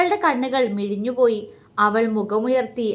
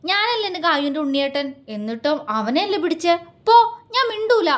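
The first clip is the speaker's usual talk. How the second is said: put-on childish sulk; 4 semitones higher than usual. Jealous man sulks childishly.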